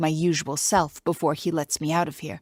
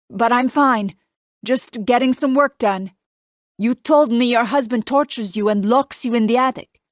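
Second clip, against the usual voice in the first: put-on light Italian accent; 6 semitones higher, 6 dB louder than usual. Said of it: "His Italian accent isn't even that thick".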